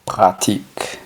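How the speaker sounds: "pratique" with no k sound before the t; pronounced without C. Shown as a demonstration. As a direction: model French "pratique", dropping the c of práctico. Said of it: "Práctico sería sin la C".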